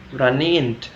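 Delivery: "runnand" said as "ran-IND"; West Midland ending. Shown as a demonstration. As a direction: close the last vowel of "runnand" to "-ind". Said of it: "in the West Midland".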